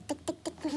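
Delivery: soft tick-tick building noise; imitated tapping. Explaining noise from upstairs, imitated tapping. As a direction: tap out quiet knocks with the tongue.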